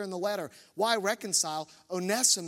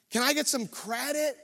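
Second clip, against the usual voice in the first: higher, whining self-mockery; mock whiny plea; 6 semitones higher than usual. Husband mocking his own plea to his wife, whining. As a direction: beg for credit like a sulky kid.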